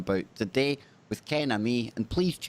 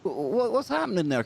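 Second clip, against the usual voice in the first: mock surprise; 5 semitones higher than usual. Mock astonished host.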